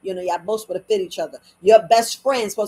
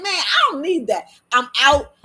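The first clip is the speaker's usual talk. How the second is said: higher, dismissive retort; acted defiant dismissal; 4 semitones higher, 4 dB louder than usual. Reenacting old reaction to being disrespected, defiant. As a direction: brush them off, firm and done.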